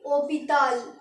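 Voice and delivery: ओपिताल said with a silent h and a falling end; French pronunciation. Shown as a demonstration. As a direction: model ओपिताल as the French hôpital. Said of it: "क्या बोलेंगे?". (French उच्चारण में ओपिताल)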